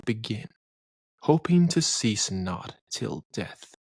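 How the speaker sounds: unhurried, reverent verse reading; poem recitation. Acted. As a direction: savour each line of the poem. Recites Whitman's Song of Myself.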